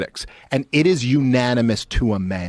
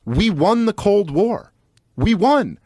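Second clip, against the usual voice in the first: imitating an exasperated old Cold Warrior, pitched higher and slowed; exasperated Kennan quote; 8 semitones higher than usual. Retelling Kennan scolding Washington over nato, mock exasperated. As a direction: voice Kennan's disbelief, mildly hammed. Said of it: "'Cause he's like".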